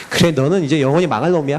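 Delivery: mock them as a smug devil; devil's gloating. Devil taunting the complaining believer, low gloat.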